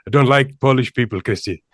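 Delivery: a hint of a Sri Lankan accent; lightly imitating a Sri Lankan coworker's accent; a Sri Lankan accent, barely put on. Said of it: "I'm gonna do an Indian accent, uh, Sri, Sri Lankan accent".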